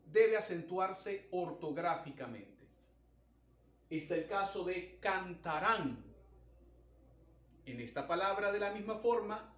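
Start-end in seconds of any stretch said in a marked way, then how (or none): 5.0-6.0 "cantarán" with the weight on final "rán"; stress on last syllable. Shown as a demonstration. Teacher showing an example of an aguda word, stressing the end of "cantarán". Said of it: "la sílaba tónica recae sobre la última sílaba".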